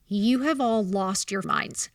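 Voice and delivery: slow, indignant retelling; retold pissed-off outburst. Mom retelling her rebuke of the board, pissed. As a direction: spell out your outrage slowly. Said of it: "I was pissed".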